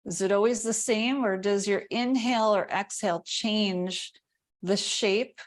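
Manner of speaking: calm body-scan guidance with long silences; guided meditation. Real, not acted. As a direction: pose gentle questions, leaving room after each. Guides attention to body sensation.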